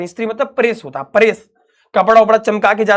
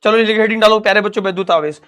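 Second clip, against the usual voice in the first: mock coaching dictation; faster than usual. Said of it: "बाकी coachings की तरह जैसे चलती हैं".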